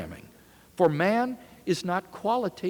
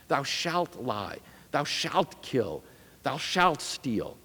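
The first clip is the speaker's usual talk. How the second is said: slow and grave, each phrase spaced out; slow solemn recitation; 3 semitones lower, 4 dB quieter, slower than usual. Retold or imitated. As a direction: intone it like a dark reversed commandment. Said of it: "the rabbi at Auschwitz said".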